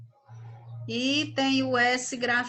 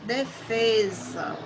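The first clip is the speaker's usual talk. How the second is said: slow example word; slower than usual. Shown as a demonstration. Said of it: "O verbo defender passou a ser um substantivo".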